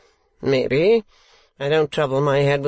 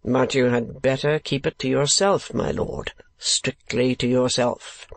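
slow, measured show of reluctance; feigned reluctance. Acted. Ralph agreeing to tell his client, feigned reluctance. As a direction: draw out the giving-in as if unwilling. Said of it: "with feigned reluctance".

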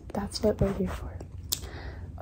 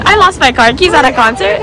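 incredulous shout; 3 semitones higher, 3 dB louder than usual. Real, not acted. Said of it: "Oh no".

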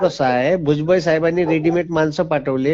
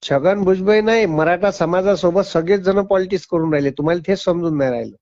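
raised, fast rebuttal; heated. Real, not acted. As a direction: push back hard and fast. Heated rebuttal on phone call.

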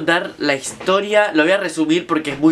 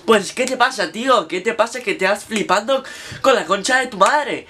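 hint of a Spanish accent, pitched up, breaking into a laugh; lightly done Spain accent, laughing; mock Spain Spanish; 4 semitones higher than usual. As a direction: fake Castilian accent with a laugh. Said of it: "Porque es español".

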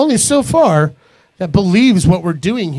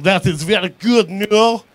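mock Russian French spy; 3 dB quieter, slower than usual. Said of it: "Maybe I'm a Russian, Russian French spy".

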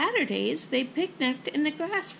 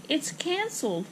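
higher-pitched understated wail; mild wail; 5 semitones higher than usual. Acted. Mother echoes the bad news, mild wail. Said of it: "wailed Ava's mother".

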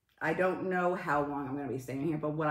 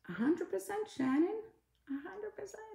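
very high, soft put-on voice; high squeaky agreement; 13 semitones higher, 6 dB quieter than usual. Real, not acted. Streamer agreeing with viewer Shannon, high squeaky voice.

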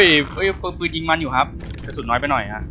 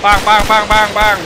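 gun noises; 4 semitones higher, 4 dB louder than usual. Pretend. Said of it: "shooting noises".

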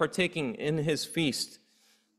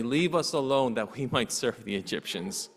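lower, quieter, chuckling through it; amused correction; 5 semitones lower, 3 dB quieter than usual. Shown as a demonstration. Preacher correcting the Israelites' claim with a chuckle. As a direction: say it with a little laugh at the absurdity. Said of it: "They did not say".

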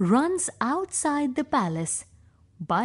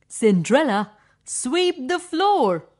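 bossy stepsister; 4 dB louder than usual. Acted. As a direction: snap the chore at her like a spoiled sister. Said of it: "Stepsister two".

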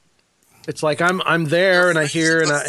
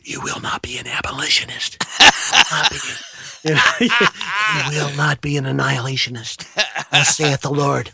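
mock prophet.

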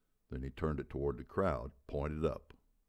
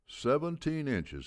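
much higher, louder and slow; booming confirmation; 12 semitones higher, 5 dB louder, slower than usual. A narrator's reading. Old coach confirming to the whole hall, booming. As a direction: let it boom off the walls. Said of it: "his voice billowing off the walls".

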